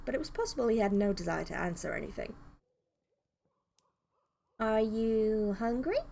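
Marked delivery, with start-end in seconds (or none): 4.6-6.0 gentle offer. Acted. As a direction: ease into it, coaxing him open. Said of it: "Love the different voices you're doing".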